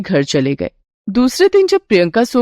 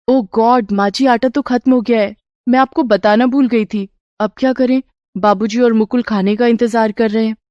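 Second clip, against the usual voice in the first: a hint of an anxious young woman; worried daughter-in-law; 2 semitones higher than usual. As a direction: confess the slip with mild alarm. Daughter-in-law finds flour gone.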